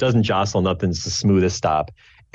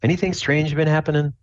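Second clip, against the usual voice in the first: slightly higher-pitched inquiring dad; lightly voiced chatty dad; 8 semitones higher than usual. Dad asks about his boy's scar, lightly voiced dad. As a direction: check in casually as a dad. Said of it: "your dad starts chatting you up".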